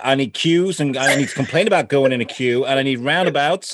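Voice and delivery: badly faked Southern American accent; awful Southern accent. Host imagining the guest's talk with her parents, awful Southern accent. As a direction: have a go at a hammed-up Southern US accent. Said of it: "did I have a Southern accent?".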